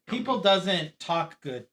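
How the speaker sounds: slow, loud, deliberate mock. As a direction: drag it out to tease the grammar. Mocking bad grammar, slow.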